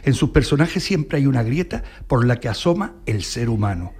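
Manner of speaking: measured, deliberate read-aloud, pausing between phrases; formal tribute reading. Acted. Host reads the AI's tribute to a guest, measured formal reading.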